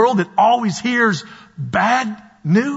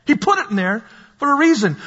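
forceful preaching; 5 semitones higher than usual. Real, not acted. Preacher exhorting the congregation.

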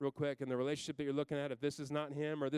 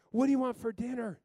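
put-on high, louder child's question; higher kid voice offering dinner; little daughter; 9 semitones higher, 6 dB louder than usual. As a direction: ask like a helpful nine-year-old girl. Daughter asks about dinner.

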